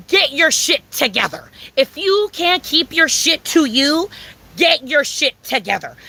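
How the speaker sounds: slow, punchy scolding; emphatic scolding. Real, not acted. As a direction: lay down the law slowly. Ranting at neighbor.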